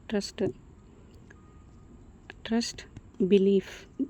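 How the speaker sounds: whispered word under the breath. Real, not acted. Teacher whispering the meaning to herself. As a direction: whisper it to yourself.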